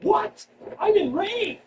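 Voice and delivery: high-pitched mock indignation; mock outrage. Comic imagines heads reacting to the news, mock outraged. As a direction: act out outraged listeners in a high voice. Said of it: "I see heads going".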